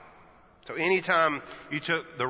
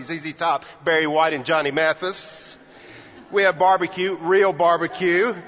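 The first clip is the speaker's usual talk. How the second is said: louder, rising pep-rally brag; a pretend speech of hometown bragging, louder; boastful Texas pride; 2 semitones higher, 6 dB louder than usual. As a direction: rattle off the list like a proud Texan booster. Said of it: "I might have said something like this".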